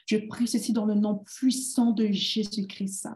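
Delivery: ordinary talk, nothing marked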